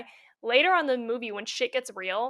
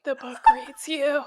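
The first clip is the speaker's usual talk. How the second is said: slow, drawn-out mockery; mocking movie line; 2 semitones higher than usual. Repeating the contrived line that was so stupid, mocking. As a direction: deliver it as a silly, portentous line. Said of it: "That was so stupid".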